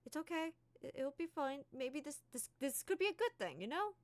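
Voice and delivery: calm her down, it's fine; reassuring James. Acted. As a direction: James reaching out to calm Key. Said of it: "he's just like".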